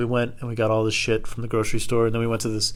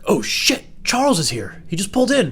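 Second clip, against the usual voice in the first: higher, hurried alarm; mock panic; 9 semitones higher than usual. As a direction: sound the alarm that the boss arrived. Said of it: "my coworker was like".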